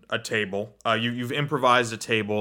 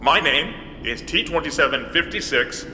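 robot voice. Acted. GM plays robot.

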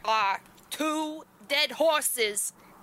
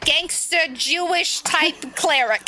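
gangster cleric voice; 3 semitones higher, 4 dB louder than usual. Pretend. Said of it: "I'm gonna be a gangster then".

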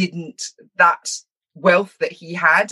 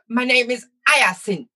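higher, mock-posh Jamaican accent; 7 semitones higher than usual. Showing how speaky spokies introduce themselves, posh Jamaican accent. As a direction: put on a Jamaican accent trying hard to sound posh. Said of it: "I can only do it in a Jamaican accent".

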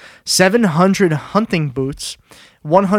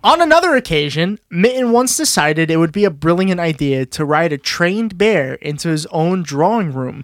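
anecdote narration with an emphatic opening; story read-aloud. Acted. Host reading the trained bear story to co-hosts, storytelling. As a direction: introduce the next absurd exploit.

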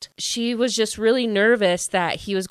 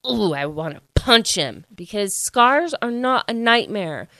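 louder, heated protest; raised voice; 3 semitones higher, 4 dB louder than usual. Real, not acted. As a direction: push the voice up in indignation. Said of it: "'cause I raised my voice".

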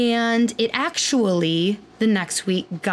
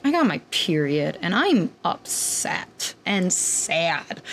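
mopey sad; 3 semitones lower, slower than usual. Retold or imitated. Telling Kirby she is sad.

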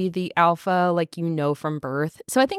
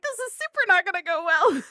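higher, more dramatic mock dread; bigger dread; 9 semitones higher than usual. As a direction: play up the panic a notch. Bride's dread escalates.

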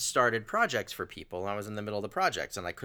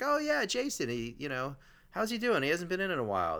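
smooth talker; 7 semitones higher than usual. Retold or imitated. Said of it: "a real smooth talker".

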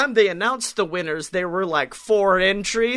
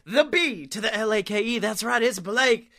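ringmaster; 6 semitones higher than usual. Pretend. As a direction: hype up the crowd like a circus host. Show intro announcer over music.

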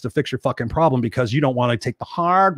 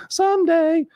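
mock wishful sigh; slower than usual. Mocking wishful thinking.

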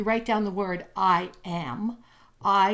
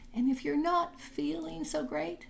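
whispered aside, higher pitch; 6 semitones higher, 4 dB quieter than usual. Real, not acted. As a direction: lean in and whisper it.

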